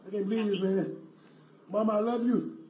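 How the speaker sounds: loud, anguished last words; desperate farewell. Real, not acted. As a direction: say goodbye in real despair. Man believes he is dying.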